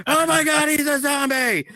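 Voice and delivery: high, loud mock panic; freaking-out kid. Imitating a kid who saw him throw up, freaking out. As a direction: imitate a terrified little kid crying out. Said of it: "Just starts freaking out".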